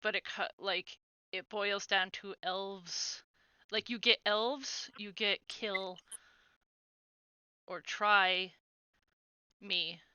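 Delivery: halting, broken phrases with long pauses; stuttering hesitancy. Acted. Frightened stranger explains the elves to the group, haltingly. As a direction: struggle to get each phrase out. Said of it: "stutter hesitancy with what he's trying to say".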